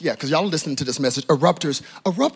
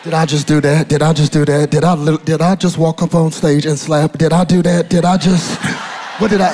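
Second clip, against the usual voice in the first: calmed-down erupter; 6 dB louder than usual. Acted. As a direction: ask it in dawning disbelief at yourself. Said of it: "once you calm down for a minute and you go".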